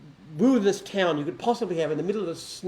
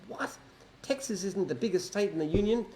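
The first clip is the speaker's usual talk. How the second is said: higher-pitched, mildly upset question; upset disbelief; 5 semitones higher than usual. Retold or imitated. Proud Texan hears his state isn't the biggest, mock upset. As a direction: imitate a man taken aback, pitch raised. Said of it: "really upset. He thought".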